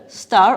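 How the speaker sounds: star said loud and stretched; stress on star. Shown as a demonstration. Teacher stressing the rhyme word star for students, loud. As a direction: lean hard on star to show the rhyme. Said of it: "the last word".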